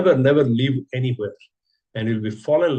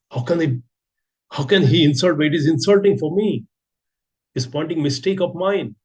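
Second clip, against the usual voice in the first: higher, hurt and offended, how dare they; indignant protest; 5 semitones higher than usual. Pretend. An offended devotee protesting a senior's correction, higher and indignant. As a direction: play the wounded ego taking offence.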